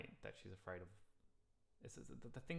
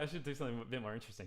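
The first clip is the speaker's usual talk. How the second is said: laughing; 3 semitones higher, 5 dB louder, faster than usual. Retold or imitated. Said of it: "I was like".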